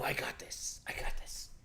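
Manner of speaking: soft unvoiced whisper, waving it off; whispered insistence. Host insisting he pays for everything, whispered. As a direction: whisper it like a generous secret.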